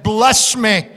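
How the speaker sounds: cling on and refuse to let go; desperate Jacob. Retold or imitated. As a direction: Jacob wrestling with God, desperate plea. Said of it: "the prayer of Jacob... said".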